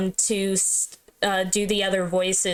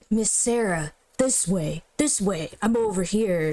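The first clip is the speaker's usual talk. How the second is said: lower guide voice try. Acted. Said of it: "that's not right either".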